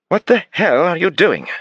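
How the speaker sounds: high, loud, slow indignant English demand; affronted outburst. Acted. Suspect pulling away from the kneeling detective, outraged. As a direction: bristle at being handled.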